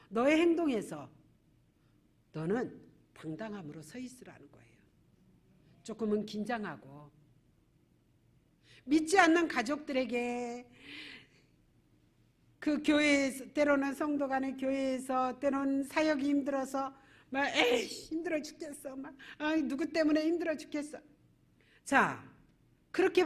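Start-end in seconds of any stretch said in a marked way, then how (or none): 2.3-4.7 breathy emphatic whisper to the congregation. Real, not acted. Pastor whispering Moses' charge to the church. 17.6-21.0 lightly voiced whiny complaint with a laugh; half-hearted imitation of a tired believer; mock grumbling. Pastor imitating a churchgoer complaining about ministry.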